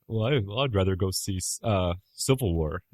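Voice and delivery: lightly mocking snob voice; a touch of mock snootiness; snobby imitation. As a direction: imitate a snobby Marvel fan, understated. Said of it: "how you sound when you get snobby".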